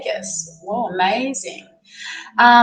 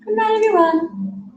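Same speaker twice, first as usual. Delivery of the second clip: voicing the baby; 11 semitones higher than usual. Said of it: "Say goodnight".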